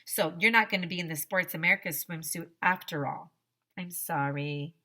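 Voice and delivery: put-on lively read-aloud to children; children's book read-aloud voice; story narration. A narrator's reading. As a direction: read the story to a class, playing the characters.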